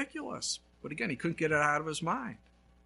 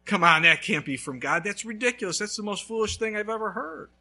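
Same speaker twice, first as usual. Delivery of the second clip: loud scoffing dismissal of the idea; mock scoffing; 4 semitones higher, 4 dB louder than usual. Preacher acting out a believer scoffing loudly. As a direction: brush it off as ridiculous.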